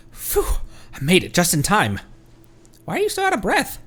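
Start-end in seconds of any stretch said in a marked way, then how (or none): 2.8-3.8 Paimon voice. Acted.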